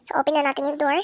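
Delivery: softly whispered, sneaking. Real, not acted. Sneaking into Granny's house, whispering to viewers. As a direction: whisper so Granny won't hear.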